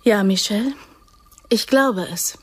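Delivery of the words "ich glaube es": trembling hushed whisper; pained whisper to him. Acted. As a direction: plead under your breath. After kissing pistol, shaken.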